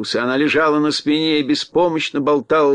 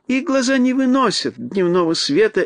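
gracious little queen, drawn out; mouse queen voice; 5 semitones higher than usual. Acted. Queen explains.

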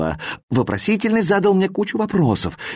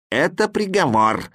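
raised-pitch proclamation; announcing; 6 semitones higher than usual. A narrator's reading. Comma presents the verdict, announcing. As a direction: announce it formally. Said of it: "объявила запятая".

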